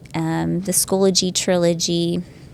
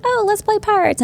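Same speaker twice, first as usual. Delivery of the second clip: Pete; 13 semitones higher than usual. Retold or imitated. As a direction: sing it out like an eager little boy. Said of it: "And Pete's like".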